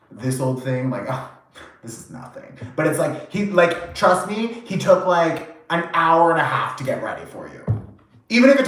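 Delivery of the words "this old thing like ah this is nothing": fading into a whisper; mock modest mumble. Guy brushing off the compliment on his clothes, fading to a whisper. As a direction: shrug it off, trailing off to a whisper.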